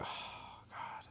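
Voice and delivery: hushed, breathy aside; whispered thought. Retold or imitated. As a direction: whisper it like a private judgement. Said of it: "and I was like".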